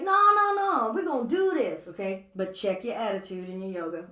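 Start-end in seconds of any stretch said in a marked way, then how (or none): 0.0-1.9 higher, louder mock insistence; mock stubborn insistence. Teacher mocking overeager students, loud stubborn no. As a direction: ham up a stubborn student refusing to quit. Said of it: "they be like".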